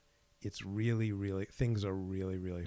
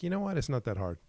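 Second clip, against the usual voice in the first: upbeat pep talk; 6 semitones higher than usual. Retold or imitated. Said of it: "when my self-talk is like".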